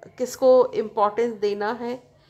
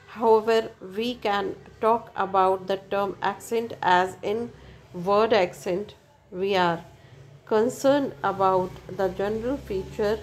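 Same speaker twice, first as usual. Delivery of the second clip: slow, careful reading from the book; textbook reading; much slower than usual. Acted. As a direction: read the definition out slowly for students. Reads textbook English slowly.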